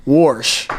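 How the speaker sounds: "wash" said with an r, as "warsh"; low, rounded "warsh" for "wash"; Southern Illinois pronunciation. Shown as a demonstration. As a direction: put an r into "wash". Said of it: "in my family, we say".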